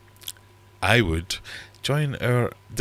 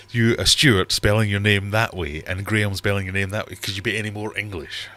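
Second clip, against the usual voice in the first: mock scolding, louder at the start; mock telling-off; 2 semitones higher, 4 dB louder than usual. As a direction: playfully lay into him. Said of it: "I'm about to lay into Stuart".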